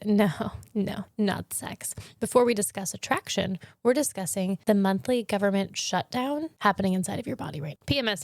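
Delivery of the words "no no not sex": slow whispered refusal. Retold or imitated. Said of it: "my uterus ... said".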